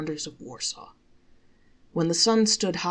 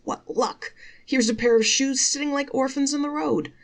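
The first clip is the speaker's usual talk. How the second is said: a hint of a pleased peasant, higher; lightly voiced peasant; 8 semitones higher, 4 dB louder than usual. Peasant talking to himself, lightly voiced and pleased.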